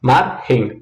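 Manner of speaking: MARGEM broken in two, MAR then GEM; split into syllables. Shown as a demonstration. Teacher showing the two syllables of the word, MARGEM split as MAR-GEM. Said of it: "Quais são as sílabas de margem?".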